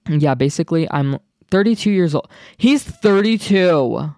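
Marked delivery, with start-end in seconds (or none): 2.6-4.1 shocked disbelief. Real, not acted.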